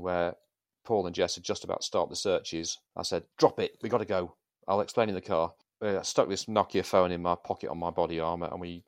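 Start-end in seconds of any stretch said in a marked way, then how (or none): 3.4-5.5 loud urgent command; urgent order. Retold or imitated. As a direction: bark it out, no time.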